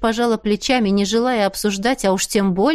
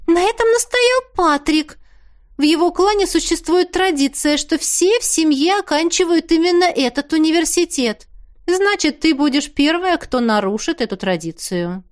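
высокий девичий голос; выше, настойчиво; голос Теа; 7 semitones higher than usual. A narrator's reading. Теа объясняет. (Теа объясняет, выше обычного)

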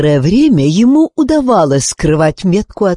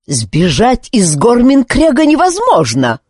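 high, raised shout of the commander; commander's shout; 8 semitones higher than usual. Acted. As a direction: shout the rule at the prisoner. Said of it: "закричал Друт-командор". (командор кричит на Зара, высоко и громко)

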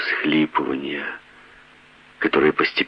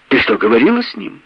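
much higher, louder woman's voice; taunting wife; 8 semitones higher, 4 dB louder than usual. A narrator's reading. Wife taunts her husband about meeting Cooper. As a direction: throw it at him, defiant.

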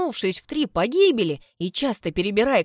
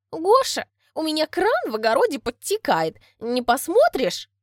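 sweet flirting voice; 6 semitones higher than usual. Acted. Flirting neighbour.

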